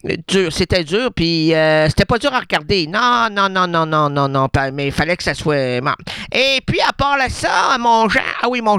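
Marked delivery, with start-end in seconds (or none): 6.3-8.8 raised, higher call across the room. Real, not acted. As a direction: hail Jean from the stage. Calling out to Jean.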